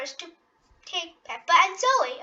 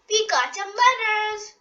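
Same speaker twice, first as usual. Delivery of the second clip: put-on high, eager little girl's cry; excited cry; 5 semitones higher than usual. Peppa runs in with the mail, calling out excitedly. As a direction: call it out thrilled at the mail. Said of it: "cried Peppa".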